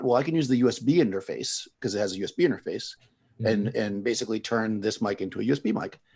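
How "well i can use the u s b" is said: usual speaking voice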